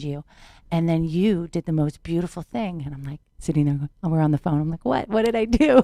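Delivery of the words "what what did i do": surprised. Retold or imitated. Retelling her own surprised reaction.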